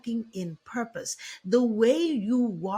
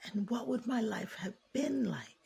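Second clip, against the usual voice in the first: soft, wistful regret; regretful inner voice; 2 semitones lower, 3 dB quieter than usual. Retold or imitated. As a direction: let it sink quietly. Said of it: "And they think".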